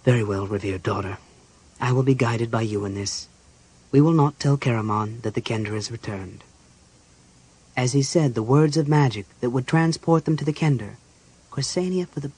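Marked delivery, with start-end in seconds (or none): 0.0-6.4 lightly voiced archmage, giving way; lowered, resigned-sounding agreement; sighed assent. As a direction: concede with a touch of a sigh. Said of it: "The Archmage sighed".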